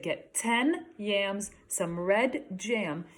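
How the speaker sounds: slow, careful listing voice; quoting Mom. Retold or imitated. Teacher repeating Mom's shopping list for the class, slow and careful. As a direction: spell out the shopping list slowly. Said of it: "So she said".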